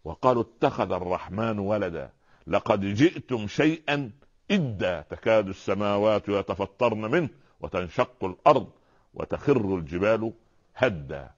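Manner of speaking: slow, measured chanted recitation; Quran recitation. Acted. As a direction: recite it slowly with reverence. (تلاوة قرآنية بطيئة ومرتلة)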